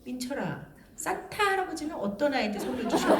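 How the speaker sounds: mock serious, contained questioning; suddenly stern mother. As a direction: drop into a mother's sober tone. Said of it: "갑자기 정색을 해요".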